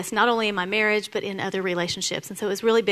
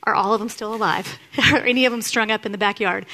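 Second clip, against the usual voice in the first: imagined accusation. Retold or imitated. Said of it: "I hear".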